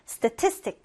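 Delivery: statistic with TIS as the strong syllable; second-syllable stress. Shown as a demonstration. Teacher repeating how statistic is pronounced, second-syllable stress. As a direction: hit the middle of statistic. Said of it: "이렇게 발음되는데요".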